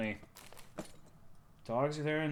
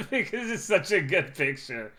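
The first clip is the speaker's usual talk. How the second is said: talking through laughter; laughing; 5 semitones higher, 4 dB louder than usual. Real, not acted. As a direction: laugh as you say it. Laughing at own picture.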